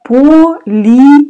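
Политика, high and bright, о said as "a"; teacher's emphatic first Политика. Shown as a demonstration. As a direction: announce Политика up high for learners. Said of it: "О you pronounce like а".

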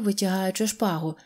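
usual speaking voice

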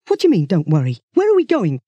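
mild mock shout, pitch climbing. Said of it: "shouted Duncan".

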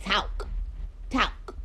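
"talk" with an "ow" glide, like "towk"; Southern "talk". Retold or imitated. Streamer questioning Southern speech, "talk" said as "towk". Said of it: "when Southern people be like".

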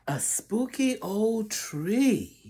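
hushed spooky whisper. Acted. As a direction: breathe it like a ghost story. Reading spooky book to children.

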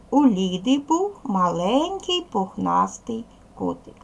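slow, even dictation-like reading; slow model reading. Shown as a demonstration. Teacher modelling the first sentence, slow and clear. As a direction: read it slowly so children follow. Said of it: "Читаю перше речення".

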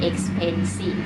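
"expensive" broken into three syllables, ex-pen-sive. Shown as a demonstration. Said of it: "มันมีอยู่ด้วยกันกี่พยางค์คะ".

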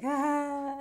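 high, playful "ah"; imitated "ah". Imitating people reacting as funny folk walk in, high "ah". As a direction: let out a high mock "ah". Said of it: "you're like".

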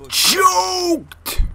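high, loud, stretched CHOKED; drawn-out yell. Real, not acted. Gamer reacting to a choked shot, drawn-out yell.

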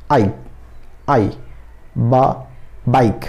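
"आई" alone as a separate vowel sound, then "बा", then the whole "बाइक". Shown as a demonstration. Teacher showing students the vowel sound in बाइक, sounded out piece by piece. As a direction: break "बाइक" into spaced pieces, vowel "आई" first. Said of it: "बाइक का उच्चारण आप सही से करेंगे".

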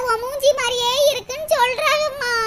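grievance trailing into acted sobs; tearful complaint. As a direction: finish the complaint by breaking down crying. Daughter ends complaint in tears.

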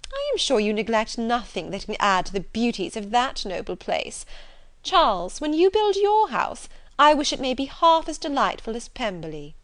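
lightly acted gushing society lady; fawning Miss Bingley. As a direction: flatter grandly, with swooping emphasis. Reader voices fawning Miss Bingley.

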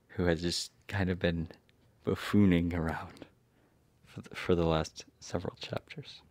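whisper. Real, not acted. Snide aside.

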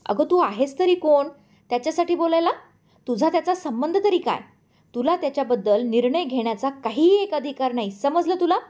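high, indignant telling-off; angry scolding. Acted. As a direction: jab each question at her. Lata points finger, berating Meera.

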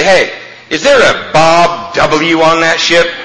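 slow, drawn-out caller asking from far away; lightly voiced duty call; phone caller. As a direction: stretch it out like a puzzled caller on the line. Phone call to ship's quarterdeck.

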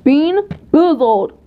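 drawn-out show announcement; announcer voice. Shown as a demonstration. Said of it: "announcing the challenge title".

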